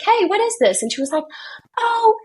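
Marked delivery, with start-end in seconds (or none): 0.0-0.8 mock mom question. Mom confronting daughter. 1.8-2.2 put-on caught child. Daughter caught lying.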